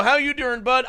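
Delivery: mock caller. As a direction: shout back like an eager fan. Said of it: "And they'd go".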